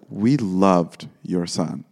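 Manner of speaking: slow, measured caller voice, lightly put on; gushing caller. Casting caller phoning a mother about her son, lightly imitated slow gushing. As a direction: draw out the praise like a casting caller. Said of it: "and they're like".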